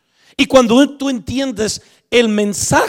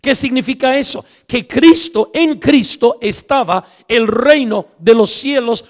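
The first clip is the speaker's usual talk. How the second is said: emphatic preaching; 3 semitones higher than usual. Acted.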